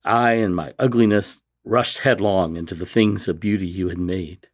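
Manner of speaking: resume the prayer firmly, phrase by phrase; earnest reading aloud, lifted at the start; reverent, measured prayer; heartfelt devotional reading. Real, not acted. Reads prayer from the Confessions.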